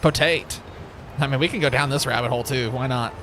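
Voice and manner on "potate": Potate said "po-TATE", ending on the long a; funky pronunciation. Shown as a demonstration. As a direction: Potate with the last syllable dropped. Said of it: "funky pronunciation".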